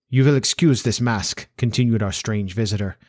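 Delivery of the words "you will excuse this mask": put-on formal Central European-accented nobleman; accented aristocrat stating his terms; Bohemian Count. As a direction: play a grave, formal foreign Count. Voices the Count as a character.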